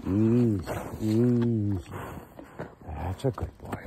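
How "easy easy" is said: loud, falling call to a horse; calming horse call. Real, not acted. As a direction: call out long to settle the horse.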